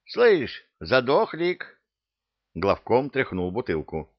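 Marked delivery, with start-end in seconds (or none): 0.1-1.8 high loud call. Acted. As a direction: shout at him through the glass. Calling to the bottle.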